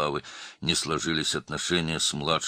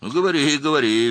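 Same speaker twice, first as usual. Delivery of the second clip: much higher and louder, gleeful taunt; cheerful; 12 semitones higher, 11 dB louder, faster than usual. A narrator's reading. Makhmudbekov cheerfully goading the officer. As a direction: taunt him merrily. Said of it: "весело сказал Махмудбеков".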